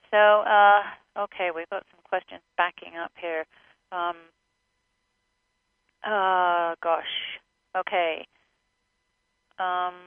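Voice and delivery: words around a mouthful of food; chewing while talking. Real, not acted. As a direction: talk while still munching. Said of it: "I'm munching on something here".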